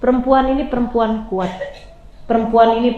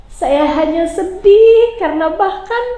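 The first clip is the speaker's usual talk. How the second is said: tearful reply; 3 semitones higher than usual. Acted. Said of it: "dalam isak tangisnya".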